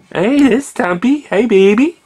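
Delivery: high-pitched coo at a pet; sweet squeaky greeting to a lizard. Real, not acted.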